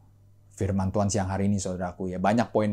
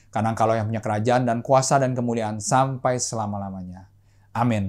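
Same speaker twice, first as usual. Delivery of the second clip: Lord's Prayer recitation. Acted. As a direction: recite it with the congregation.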